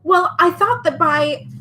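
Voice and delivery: high, slow and pleading; desperate. Acted. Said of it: "he tried again desperately".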